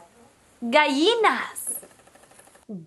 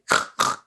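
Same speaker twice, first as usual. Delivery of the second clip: pig snort. Shown as a demonstration. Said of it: "snort like a pig".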